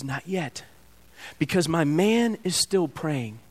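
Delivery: calm God. Acted. God answers Michael calmly.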